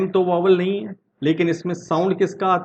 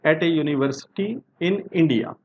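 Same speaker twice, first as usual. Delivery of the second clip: slow example read; much slower than usual. Shown as a demonstration. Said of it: "अब next देखते हैं".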